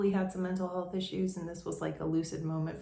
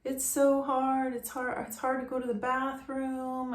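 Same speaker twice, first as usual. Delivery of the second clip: retold crying; 6 semitones higher than usual. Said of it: "He started crying again".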